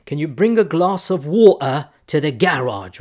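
British accent, "garage" stressed on the first syllable; fake British accent. Shown as a demonstration. Imitating a Brit asking for water, fake British accent. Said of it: "try my fake British accent".

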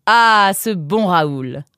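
high, drawn-out happy cry; boy delighted at his cousin's name; fond exclamation. Acted. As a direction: exclaim slowly with affection. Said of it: "s'écria Nemrod".

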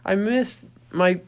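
high, whimpering puppy voice; anxious whining puppy. Retold or imitated. Puppy alone in the kennel whining for mom, high and fretful. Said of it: "they're just like".

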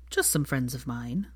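soft, slow, falsely innocent. A narrator's reading. Draco dodging her question, innocently quiet. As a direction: play it all too casual. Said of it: "said Draco innocently".

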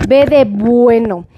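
slow, spaced spelling with each word set apart; spelled out slowly. Shown as a demonstration. To viewers spelling the brand name, "B de bueno" slow and spaced. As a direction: spell out "B de bueno" slowly so nobody gets it wrong. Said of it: "Barcel con".

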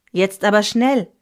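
put-on a father urging his child home; father calling. A narrator's reading. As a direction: call out to hurry home before the snow. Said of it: "rief mein Vater".

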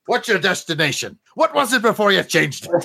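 Sean Connery impression. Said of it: "Sean Connery over there".

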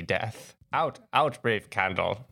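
grave theatrical soliloquy with long pauses; Patrick Stewart. Acted. Podcast host performing Macbeth's soliloquy, lightly imitated classical actor. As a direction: recite it like a classical stage actor. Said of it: "doing my, uh, Patrick Stewart".

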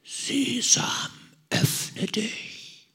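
höher geflüsterte Zauberformel; ganz leise geflüstert. Retold or imitated. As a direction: hauch die Worte vorsichtig vor den Felsen. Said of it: "und sagt ganz leise". (Ali Baba flüstert ängstlich vor dem Felsen)

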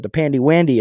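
put-on cutesy baby talk. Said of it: "as Chris would put it".

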